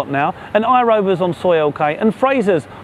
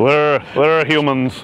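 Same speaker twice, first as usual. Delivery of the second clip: put-on slow London accent, We're stretched out long; 2 semitones lower, much slower than usual. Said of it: "That's that silly London accent".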